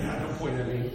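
low, soft imitated plea; shrinking protest. Kid singled out in the congregation, quiet protest. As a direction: keep it down, imitating someone singled out. Mimics embarrassed listener shrinking away.

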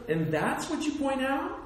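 a questioning lift of mock surprise; rising disbelief. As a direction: ask it as if you can't believe it. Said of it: "I'm like".

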